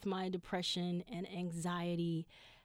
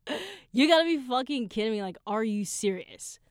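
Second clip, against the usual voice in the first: incredulous outburst; 3 semitones higher, 8 dB louder than usual. Retold or imitated. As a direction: burst out as if you can't believe it. Retold outburst at court papers.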